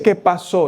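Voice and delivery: "qué" marcado con fuerza al repetir "qué pasó"; énfasis en qué. Shown as a demonstration. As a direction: subrayar "qué" en "¿qué pasó?" para pedir detalles. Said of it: "está pidiendo detalles". ("qué" acentuado, pregunta que exige detalles)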